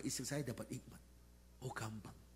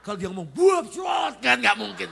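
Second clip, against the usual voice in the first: loud garbled shout, much higher; mouthful of water; 9 semitones higher, 18 dB louder than usual. Retold or imitated. Pastor mimics wife talking with mouth full, garbled. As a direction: try to talk with water in your mouth.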